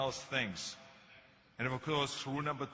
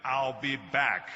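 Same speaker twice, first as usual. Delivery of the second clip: loud, slow movie catchphrase; Terminator; 6 dB louder, slower than usual. Acted. Actor performs his famous film line for a crowd, menacing catchphrase. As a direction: deliver it as a weighty, drawn-out signature line. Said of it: "when I did Terminator".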